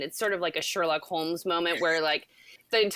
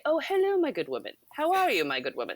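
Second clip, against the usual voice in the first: put-on crazy British accent; 8 semitones higher, faster than usual. Host re-enacting greetings with their bestie, crazy British accent. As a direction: imitate a hammy British greeting, swooping from high. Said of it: "that crazy British accent".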